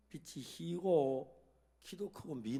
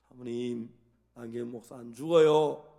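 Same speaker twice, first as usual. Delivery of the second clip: a hint of Jesus' firm assurance, louder; imitating Jesus; 6 semitones lower, 9 dB louder than usual. Pastor to the weeping wife, loud firm assurance. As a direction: assure her firmly as His servant. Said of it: "예수님의 종이니까".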